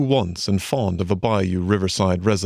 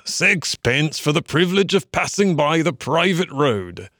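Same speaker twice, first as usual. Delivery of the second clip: higher, fussy toll-keeper rabbit; elderly rabbit; 7 semitones higher than usual. A narrator's reading. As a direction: demand the toll, old rabbit. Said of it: "said an elderly rabbit".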